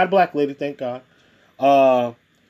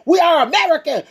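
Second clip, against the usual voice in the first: high mocking imitation of a proud claim; lightly hammed-up mock voice; 11 semitones higher, 3 dB louder than usual. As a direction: parody them, pitched way up. Mocking people who say this.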